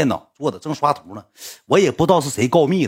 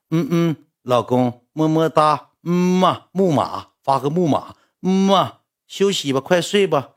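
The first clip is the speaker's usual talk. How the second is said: mock lovey-dovey girlfriend with blown kisses; cutesy girlfriend; 2 semitones higher, slower than usual. Girlfriend sending kisses at bedtime, mock cutesy. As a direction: put on sweet, kissy baby-talk. Acting girlfriend's kissy goodnight messages.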